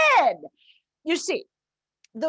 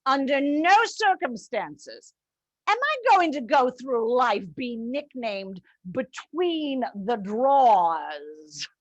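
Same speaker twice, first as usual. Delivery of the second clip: indignant refusal; slower than usual. Retold or imitated. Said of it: "I told them".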